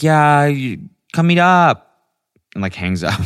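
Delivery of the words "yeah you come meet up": high, loud, carefree friend voice; high-pitched breezy mimicry; Bridget on the phone. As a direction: imitate an oblivious friend brushing it off. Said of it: "she's like".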